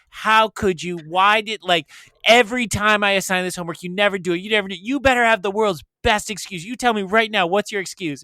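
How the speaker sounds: hammed-up angry teacher rant; teacher laying into student. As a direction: tear into a kid over missed homework. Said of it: "he just laid into her".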